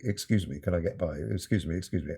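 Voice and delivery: quick, understated apologetic murmur; mock polite. Composer shuffling along a theatre row, mock polite. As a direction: imitate someone politely squeezing past. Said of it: "and to be polite".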